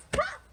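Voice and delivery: sudden popping "pop"; quick, punchy pop; bubble pop. Acted.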